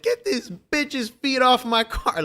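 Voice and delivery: high, drawn-out mock outburst; imitating someone losing it. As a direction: act out a moviegoer freaking out, slow and high-pitched. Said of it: "he was losing it".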